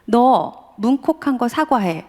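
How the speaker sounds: slow, measured order, a touch of anger; a husband fed up with his son orders an apology, stern and slow; stern demand. Retold or imitated. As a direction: lay down the demand word by word. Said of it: "열이 받아가지고".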